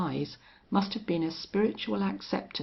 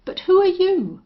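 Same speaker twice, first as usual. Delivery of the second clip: husky; 11 semitones higher, 10 dB louder than usual. Acted. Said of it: "said Folsom huskily".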